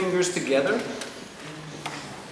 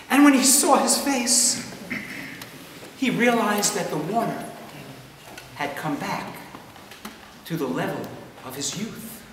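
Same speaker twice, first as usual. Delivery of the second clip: hushed storytelling, sinking softer toward the end; story narration; 7 dB quieter than usual. A narrator's reading. Resumes story after plain aside.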